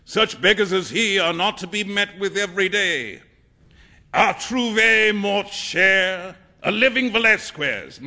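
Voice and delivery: high, loud boasting; shouting. A narrator's reading. Painter exulting over his beggar model, shouting. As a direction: proclaim it grandly, at full voice. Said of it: "shouted Trevor at the top of his voice".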